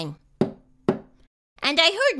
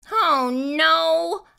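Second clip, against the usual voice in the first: dismayed outburst, pitched up; blurted dismay; 4 semitones higher than usual. A narrator's reading. Child seeing the plan fail, blurted dismay. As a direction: blurt it out in alarm. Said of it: "I blurted".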